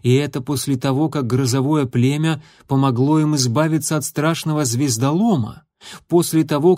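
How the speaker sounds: ordinary delivery, nothing marked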